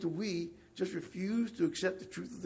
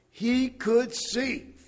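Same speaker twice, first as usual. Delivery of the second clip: very slow and louder, each word weighted; emphatic testimony; 4 semitones higher, 6 dB louder, much slower than usual. Acted. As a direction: drag out every word with firm certainty. Blind man's short testimony.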